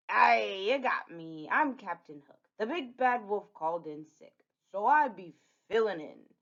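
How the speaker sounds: lightly voiced pirate villain; pirate Captain Hook. Captain Hook caught out by Red, sheepish pirate. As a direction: own up with a touch of pirate.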